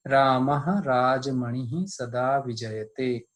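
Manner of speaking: slow, measured shloka chant; Sanskrit recitation. Shown as a demonstration. Teacher recites the Sanskrit verse for students, slow chant. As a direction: recite the verse slowly and evenly. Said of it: "इसको समझिए".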